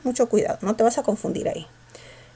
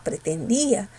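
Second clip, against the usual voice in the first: PRETENDÍA with the force on the I; stressed I; 3 semitones lower, 3 dB quieter than usual. Shown as a demonstration. Teacher confirming the answer, stressed I in pretendía. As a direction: say "pretendía" as pre-ten-DÍ-a. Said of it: "La cerrada tiene mayor fuerza de voz".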